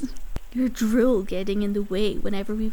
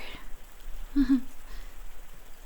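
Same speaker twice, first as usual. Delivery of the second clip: soft amused laugh; 9 dB quieter than usual. Acted. Amused at the listener's memory.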